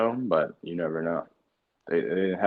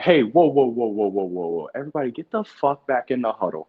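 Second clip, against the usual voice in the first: high, loud bark to regroup the huddle; furious head coach shouting at players; angry coach yell; 8 semitones higher, 9 dB louder than usual. Retold or imitated. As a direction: yell at the team to get back.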